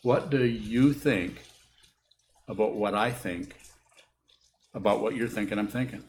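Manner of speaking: slow, spelled out with pauses between phrases; very slowly. Shown as a demonstration. Teacher repeating a tangled question for students, very slowly. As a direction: lay out the tangle piece by piece. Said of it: "So I'll say it very slowly".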